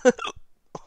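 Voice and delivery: sudden loud hiccup; a real hiccup. Real, not acted. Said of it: "Got the hiccups".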